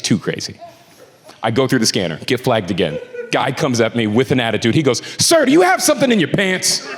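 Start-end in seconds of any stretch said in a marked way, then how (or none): 5.2-6.9 gruff agent. Retold or imitated. TSA agent quoted.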